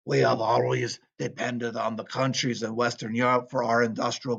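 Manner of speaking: put-on light Russian accent, reading a factory owner's words; a hint of a Russian accent, kept understated. Teacher reading a factory owner's quote, lightly Russian-accented. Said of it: "I'm not doing my Russian voice anymore".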